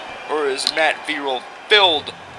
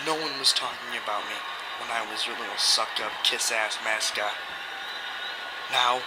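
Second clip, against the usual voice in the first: quiet, cold heel promo; menacing wrestler promo; 3 semitones lower, 9 dB quieter than usual. Acted.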